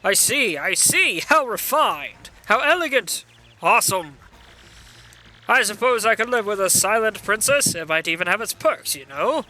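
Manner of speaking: lightly voiced smug villain; a hint of a pompous monster king; Bowser voice. Bowser reacting.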